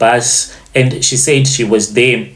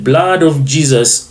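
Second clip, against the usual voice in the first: put-on mild Nigerian accent on an exclamation; lightly put-on Nigerian accent. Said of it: "in Nigerian accent".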